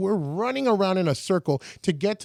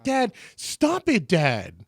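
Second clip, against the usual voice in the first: mad at dad; 3 semitones higher, much slower than usual. Retold or imitated. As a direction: stretch it out, rebuking him. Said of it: "She got mad at Abraham".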